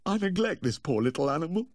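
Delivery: high-pitched, anguished self-reproach; distressed gasp. A narrator's reading. Owner blaming himself for neglecting his pet, high distressed gasp. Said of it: "he gasped".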